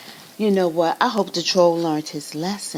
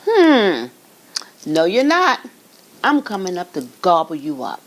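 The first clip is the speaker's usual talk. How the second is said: louder, menacing troll; 5 dB louder than usual. Acted. Troll threatening the tiny goat, loud.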